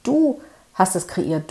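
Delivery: Du leaned on, slowed down; slow, deliberate Du at the start; stress on du. Shown as a demonstration. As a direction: put the weight on Du. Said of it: "Die Betonung liegt hier auf du".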